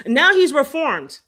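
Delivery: slow, loud and high sarcastic drawl; mocking his fans' excuse, loud and slow. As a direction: stretch it out, dripping with sarcasm. Sarcastic mock of his apology.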